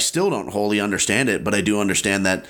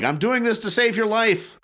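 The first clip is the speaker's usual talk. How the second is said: mock yelling; 12 semitones higher than usual. Bully to crying teen in his arms, mock yelling. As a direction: play at yelling, pitch jumping up high. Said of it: "I'm just yelling it at him".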